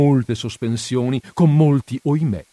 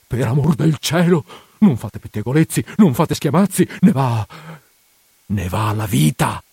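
anxious plea, rising on each non fate; frightened pleading; 2 semitones higher than usual. Acted. Priest begs housekeeper for silence.

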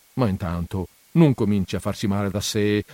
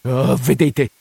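irritated voice; slower than usual. Acted. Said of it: "con voce stizzosa".

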